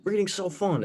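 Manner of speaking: hammed-up giddy reader; mock excitement. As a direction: play up your past self's glee. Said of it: "So I was like".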